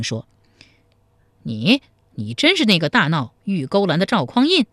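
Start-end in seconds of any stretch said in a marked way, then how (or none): 1.4-4.7 a mild startled stammer, 你，你 tripping out. Acted. Officer stunned to meet Zhao Kuangyin, mildly startled question. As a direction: mildly caught off guard, asking in disbelief. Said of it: "黄面汉子吃了一惊".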